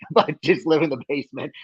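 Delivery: chuckling through the words; amused laugh at the idea of the basement. Real, not acted. Joking about moving home.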